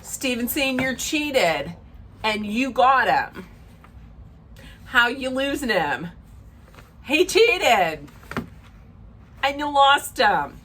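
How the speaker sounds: measured, emphatic pronouncement; sage advice. Real, not acted. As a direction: spell out the lesson with deliberate pauses. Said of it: "Sage advice coming up".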